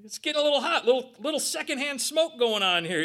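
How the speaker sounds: amused, laughing aside to the crowd. Real, not acted. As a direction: laugh through the joke. Joking about heated exchange.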